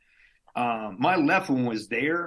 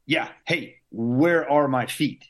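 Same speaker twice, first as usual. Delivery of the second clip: slow, louder demand; retold demanding yell; 3 semitones higher, 5 dB louder, slower than usual. Patient demanding his feet from the doctor, louder and slow. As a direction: drag it out, pushing the staff for an answer. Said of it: "I start yelling at people".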